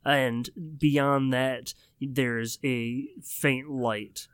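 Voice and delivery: slow, hushed scene narration; game master scene setting. Acted. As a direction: paint the dark cave slowly, drawing them in. DM describes the cave.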